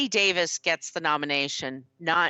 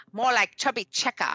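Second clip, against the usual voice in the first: put-on mid-Atlantic accent; 5 semitones higher than usual. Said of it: "Like a mid-Atlantic accent".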